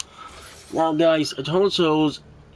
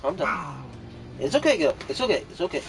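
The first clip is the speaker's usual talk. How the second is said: gentle repeated comforting, trailing softer; soothing; 5 dB quieter, faster than usual. Real, not acted. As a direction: softly reassure an upset pet. Soothing an upset cat.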